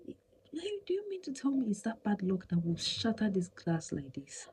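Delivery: high, hushed disbelief; incredulous whisper. Retold or imitated. Wife mocking the padlock idea in a high whisper. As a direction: whisper it like it's absurd. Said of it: "It was not like".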